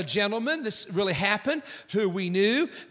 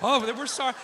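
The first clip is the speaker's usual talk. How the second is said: mock repentance; 3 semitones higher than usual. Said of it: "they're repenting".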